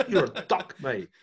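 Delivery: put-on New Zealand accent, "doc" for duck. Mocking his own New Zealand accent to friends. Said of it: "in your New Zealand accent".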